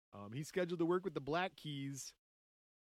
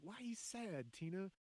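mock impression of a musician; 5 semitones higher, slower than usual. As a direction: coo it like a fake-caring husband. Voicing a musician asking his wife.

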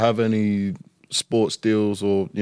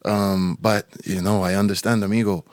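lightly imitated Spanish accent; a loose Spanish-accented agent impression; Pedro. Player shows friends how his agent talks, light Spanish accent. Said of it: "this is how Pedro talks".

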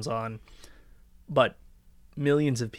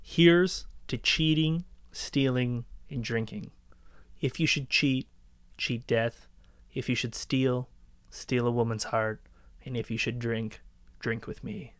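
reciting a toast; 3 semitones lower, 4 dB quieter, slower than usual. Retold or imitated. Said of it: "you go".

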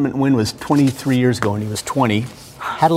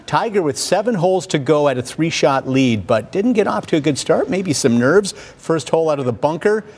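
lively highlight narration, calling each shot; golf commentator. Acted. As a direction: call the golf highlights like a broadcaster. Narrates golf highlights over footage.

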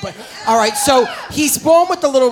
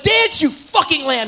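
mock-furious command, pitched up and drawn out; angry yell, acted; 4 semitones higher than usual. Comic retells drummer boy ordering animals to dance, acted angry yell. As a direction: order them about like an angry little boy. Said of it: "who is so angry".

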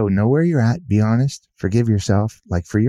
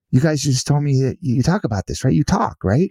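rising, pitched-up incredulous question; retold disbelief; 7 semitones higher than usual. Author questioning the family at brunch, incredulous. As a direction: push back, not quite believing them. Confronting family over silence.

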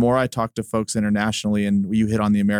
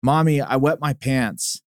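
lightly voiced American little kid, a bit higher and slow; 4 semitones higher, slower than usual. Host imitates an American kid telling mom he wet himself. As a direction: mimic a small kid whining to mom, barely changed. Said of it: "a little American kid will say".

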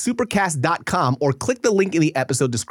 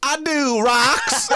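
high, slow, laughing nerd voice; mocking the geologist character as a nerd; mock nerdy virgin voice; 9 semitones higher, 4 dB louder, slower than usual. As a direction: play the shy rock nerd, giggling. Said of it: "This fool sounds like a virgin".

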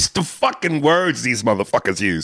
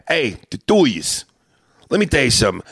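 put-on Italian-American accent. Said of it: "the proper way to say it".

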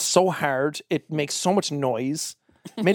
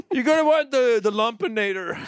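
pushy mattress salesman; 6 semitones higher than usual. Retold or imitated. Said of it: "He's like".

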